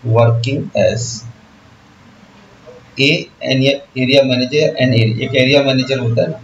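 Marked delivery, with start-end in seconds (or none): 0.0-1.2 very slow model phrase. Shown as a demonstration. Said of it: "teacher models phrase". 3.0-4.7 teacher slowly fixes a to an in area manager; slow, careful correction. Shown as a demonstration. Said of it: "ए आएगा कि एन आएगा".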